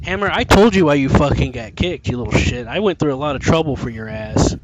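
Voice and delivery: loud, heated telling-off; frustrated rant at a teammate; angry scolding. Real, not acted. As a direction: chew him out, loud and hot.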